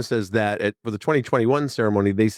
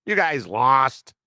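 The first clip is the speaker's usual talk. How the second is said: high, slow playful gloat; teasing Pope; 5 semitones higher, slower than usual. Retold or imitated. Pope gloating at the Cubs fan, slow playful tease. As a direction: drag out the tease, gently gloating. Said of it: "He's gotta get".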